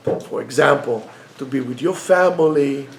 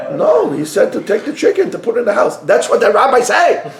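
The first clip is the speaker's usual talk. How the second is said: laughing husband; 5 semitones higher, 3 dB louder than usual. Acted. Husband reports to wife, laughing.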